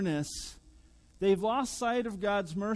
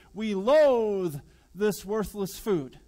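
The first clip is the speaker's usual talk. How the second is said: disgusted complaint; 6 dB louder, slower than usual. Pretend. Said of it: "That's why they say".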